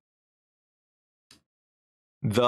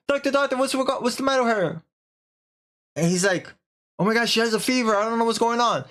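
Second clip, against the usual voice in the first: higher, frantic pleading with the doctor; mock panic; 10 semitones higher, faster than usual. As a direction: beg the doctor in a high fluster. Husband begging doctor about fever.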